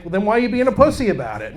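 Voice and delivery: brisk, gruff mock of a tough Italian dad. Father scolds bullied son in his own dad's tough voice. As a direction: bark it like his hard-ass father would. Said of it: "as my dad's voice".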